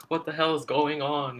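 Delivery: lightly acted confusion; mock bewilderment. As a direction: play a confused man coming to. Acts out the character's bewildered reaction.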